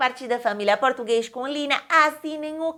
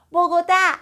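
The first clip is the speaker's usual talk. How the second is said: announced city name; 6 semitones higher, 6 dB louder than usual. Shown as a demonstration.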